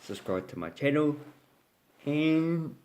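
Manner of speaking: talking through a yawn; sleepy, mid-yawn delivery. Real, not acted. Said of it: "Gee, I keep yawning".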